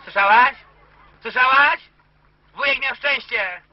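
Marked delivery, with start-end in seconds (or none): 0.0-1.8 raised voice into the receiver; loud call. Real, not acted. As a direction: call out so she hears over the line. (głośno do słuchawki)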